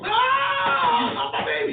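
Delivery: high mock mother's wail, then a hushed plea; a hint of a fretting mother; imitating a mom. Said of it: "and his mom".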